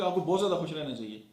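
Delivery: wholehearted, lively encouragement; emphatically happy. Shown as a demonstration. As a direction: push बहुत ज़्यादा with eager conviction. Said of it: "मेरी जो पूरी बात है".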